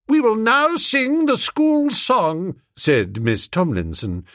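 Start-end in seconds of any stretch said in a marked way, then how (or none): 0.1-2.6 slow, high, icy pronouncement; icy command. A narrator's reading. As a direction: freeze him out with authority. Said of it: "rising like an iceberg".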